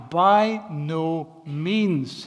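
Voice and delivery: slow, firm, each word weighed; emphatic denial. Retold or imitated. Preacher voicing Paul's emphatic no to the congregation. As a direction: deny it flatly, with weight. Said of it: "He's emphatic".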